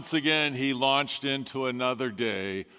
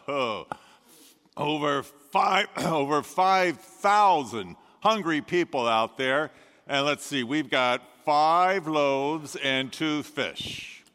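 clipboard disciple; 3 semitones higher, 3 dB louder than usual. Acted. Disciple with clipboard tells Jesus it isn't enough, mock-official. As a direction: play the disciple reading off his list with a wry point. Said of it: "that disciple went around with the clipboard".

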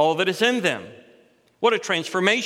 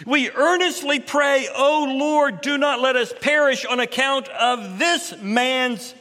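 much higher, louder, slow pleading cry; earnest prayer; 8 semitones higher, 4 dB louder than usual. Acted. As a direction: beg the Lord for mercy. Sailors pray to the Lord.

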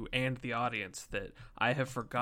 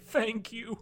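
high, silly grateful cows; 9 semitones higher than usual. Pretend. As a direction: squeak thanks like a cow.

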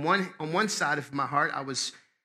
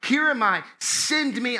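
higher, emphatic offer of oneself; earnest willingness; 8 semitones higher, 4 dB louder, slower than usual. Shown as a demonstration. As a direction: declare it readily, like a preacher volunteering. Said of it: "I wanna say it like this".

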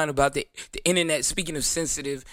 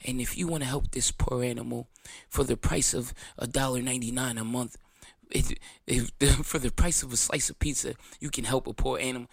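mock charity ad; 2 semitones lower than usual. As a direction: parody a sad animal-charity commercial. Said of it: "the dogs that you see in a commercial".

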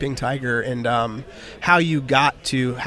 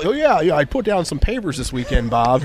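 mock office bloke; 3 semitones higher, 5 dB louder than usual. Mocking office small talk.

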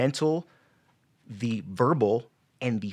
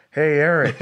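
loud booming call from above, pitched up; mock voice of God calling out to Eric; God's voice; 5 semitones higher, 9 dB louder than usual. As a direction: boom it out like a voice from heaven. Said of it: "God is talking to you in an audible voice".

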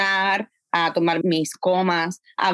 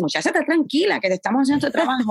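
high, fast voicing of staff calming her; reassuring coworkers; 5 semitones higher, faster than usual. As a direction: play the team telling her to relax. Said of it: "la gente me dice". (voz alta y rápida de quien la tranquiliza)

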